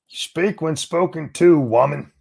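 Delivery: high, slow, mock-stern order; hammed-up domineering voice; mock macho command. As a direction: bark it like a caricature of a chauvinist.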